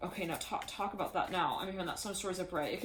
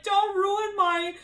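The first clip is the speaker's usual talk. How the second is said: high loud plea; 12 semitones higher, 9 dB louder, slower than usual. Retold or imitated. Someone's like, high loud quote.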